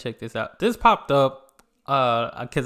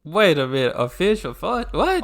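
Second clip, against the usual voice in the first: confused surprise; 4 semitones higher, 4 dB louder than usual. Real, not acted. Confused by the fish joke.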